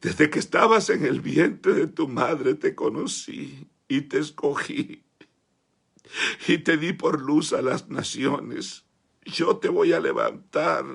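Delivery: slow, gentle voice of Jesus. Retold or imitated. Jesus calling the boy by name, slow and gentle. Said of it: "y me dijo".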